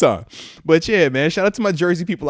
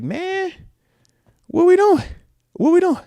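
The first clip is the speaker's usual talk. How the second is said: exasperated; 13 semitones higher, 3 dB louder than usual. Retold or imitated. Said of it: "I'm just like".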